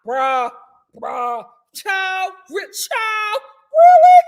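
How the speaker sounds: high loud playful vernacular imitation; hammed-up bruh, rising to a shriek; imitating AAVE slang. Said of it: "with her African-American vernacular".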